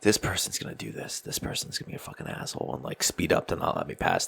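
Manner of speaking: whispered inner monologue; muttered thoughts. Retold or imitated. Driver grumbling to himself about other drivers, whispered. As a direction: mutter it under your breath like a thought. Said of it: "You're like".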